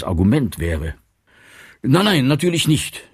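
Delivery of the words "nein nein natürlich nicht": quick. A narrator's reading. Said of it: "sagte Wehrmann rasch".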